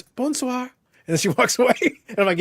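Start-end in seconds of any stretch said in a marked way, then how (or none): 0.0-0.6 mock-sarcastic "Bonsoir" in a French Canadian lilt; a snooty French Canadian host's parting "Bonsoir". Host mocking contestants with a sarcastic French "Bonsoir". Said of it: "she sarcastically says".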